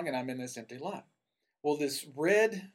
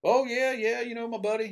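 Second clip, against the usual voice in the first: high-pitched young Tennessee redneck, imitated; redneck accent; 10 semitones higher, 6 dB louder than usual. Naive young man chatting back to a stranger, redneck accent. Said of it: "my redneck accent a little bit".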